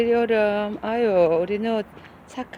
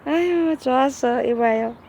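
ordinary talk, nothing marked

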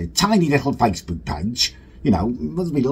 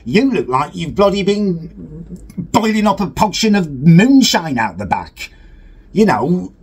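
higher-pitched mock outrage; indignant comeback; 6 semitones higher, 4 dB louder than usual. Creator hitting back at jibes about his looks, indignant. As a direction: fire back, affronted, in a raised pitch. Riled comeback to appearance insult.

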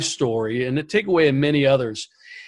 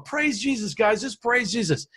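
higher, softer, hushed plea to praise; hushed worship leader; 7 semitones higher, 5 dB quieter than usual. Retold or imitated. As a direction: imitate the worship leader gently urging the crowd. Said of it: "and he's just going".

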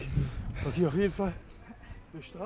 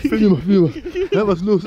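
excited shouting; 10 dB louder than usual. Real, not acted. Excited shouting during the race.

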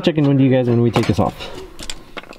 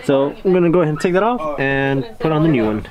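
talking from under the car; lying on your back under a car. Real, not acted. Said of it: "I'm under the car right now".

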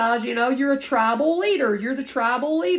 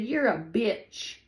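mocking hater's taunt; 4 semitones higher, slower than usual. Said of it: "somebody said".

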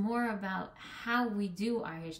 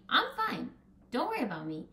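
reassuring aside; 7 semitones higher, 4 dB louder than usual. Acted. Hashem reassuring Moshe.

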